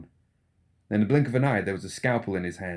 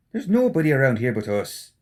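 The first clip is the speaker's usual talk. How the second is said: teasing rogue, a bit louder; Seamus, mocking; 5 semitones higher, 5 dB louder than usual. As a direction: needle his grumpy friend, cheeky. Seamus voiced.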